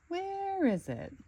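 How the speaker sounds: Calypso's question. Acted.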